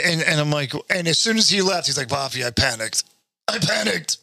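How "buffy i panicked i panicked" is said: lightly voiced old-man accent; friend's odd accent. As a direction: imitate the friend like an aging Jewish guy, lightly. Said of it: "a seventy-five-year-old Jewish guy".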